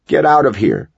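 shrill it out in panic. A narrator's reading. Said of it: "Connor shrilled".

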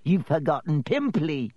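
sly, needling imp voice; hissed taunt. A narrator's reading. Poltergeist taunts in the ghost's ear, hissing. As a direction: slip the insult in with a tight, teasing edge. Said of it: "Peeves hissed in her ear".

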